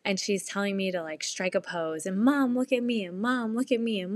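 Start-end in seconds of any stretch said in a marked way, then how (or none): 2.2-3.1 imitating a kid calling Mom, higher and louder; attention-seeking child. Imitates child demanding her attention. 3.2-4.0 higher-pitched imitation of a pestering kid; attention-seeking child. Imitates child demanding attention again.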